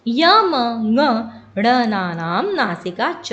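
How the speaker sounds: slow, spaced-out sutra recitation; teacher reciting a Sanskrit sutra. Shown as a demonstration. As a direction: set out each syllable clearly for students. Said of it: "जो हमारा सूत्र है वो है".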